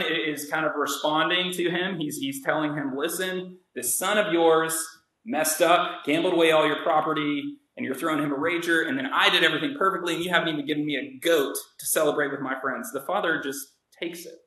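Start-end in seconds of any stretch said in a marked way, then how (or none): 3.0-12.9 aggrieved son. Retold or imitated. Angry older son retold.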